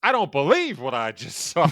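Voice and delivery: preacherly restatement of a sportscaster's call; Jack Buck. Retold or imitated. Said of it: "almost like a pastor kind of way".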